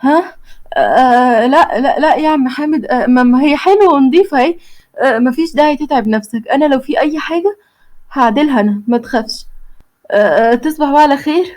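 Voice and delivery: flustered, stammering reassurance; nervous. Acted. The girl nervously fobs off the worker at her door, stammering. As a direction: cover up nervously. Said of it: "بتتوتر وبتبقى خايفة".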